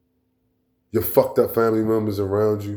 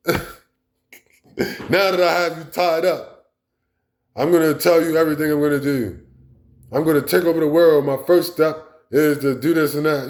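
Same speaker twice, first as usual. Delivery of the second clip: movie villain; 6 semitones higher, 3 dB louder than usual. Retold or imitated. Mocking a movie villain gloating over his tied-up captive. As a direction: gloat like a cheesy movie bad guy. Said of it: "the villain reveals his plans".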